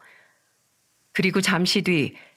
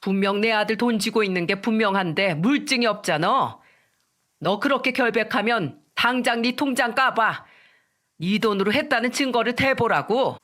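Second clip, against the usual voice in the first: mild angry shout; 3 semitones higher than usual. Acted. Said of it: "더 불같이 화를 내며 소리쳤습니다".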